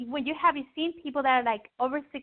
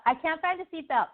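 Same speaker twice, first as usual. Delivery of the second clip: higher, frustrated grumble; unhappy complaining; 6 semitones higher than usual. Acted. Frustrated passenger hunting for the seatbelt, acted complaining. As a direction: complain as if fed up, mildly acted. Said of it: "unhappiness from joy, far from peace".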